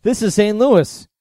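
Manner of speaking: quick, lightly acted smart-aleck; mock smart-ass. Retelling the taxi stand guy needling Neil, mock smart-ass. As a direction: rattle it off like a wise guy. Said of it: "being like a smart ass".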